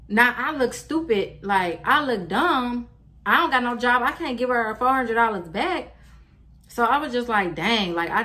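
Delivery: upset rant. Real, not acted. Upset about being scammed.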